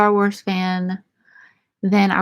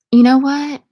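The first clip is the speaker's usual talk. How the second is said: outburst; 5 semitones higher, 6 dB louder than usual. Real, not acted. Ranting about Yoda.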